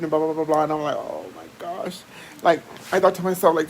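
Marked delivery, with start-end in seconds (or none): 1.0-2.0 low, slow and very soft; hushed dismay. Retold or imitated. Reacting to the long approval wait, hushed dismay. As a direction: sink into a drawn-out murmur.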